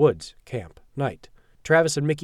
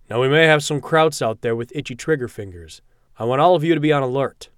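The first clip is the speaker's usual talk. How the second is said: commanding; 2 semitones higher, 6 dB louder than usual. Acted. Captain orders the squad.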